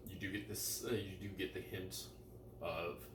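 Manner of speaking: talking through a mouthful of toast; chewing while speaking, words muffled by food; mouth full. Real, not acted. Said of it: "'cause I'm eating with my mouth full".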